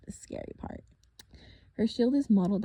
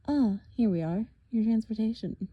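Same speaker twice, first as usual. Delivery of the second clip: smug villain; 3 semitones higher, 5 dB louder than usual. Acted. Villain voice for Thorne.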